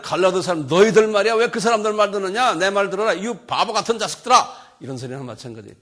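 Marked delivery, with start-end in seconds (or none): 0.0-4.8 scolding Paul. Retold or imitated. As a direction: berate the foolish Galatians loudly. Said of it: "이렇게 그냥 막 말을 하는 거예요".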